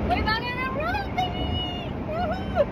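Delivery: high whooping joy; road trip cheer. Real, not acted.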